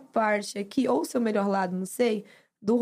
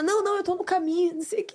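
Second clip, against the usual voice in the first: put-on whiny teen sister; 8 semitones higher than usual.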